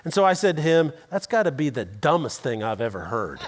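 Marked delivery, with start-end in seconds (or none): 1.1-3.4 laughing bluntly. Retold or imitated. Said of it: "Not my best moment".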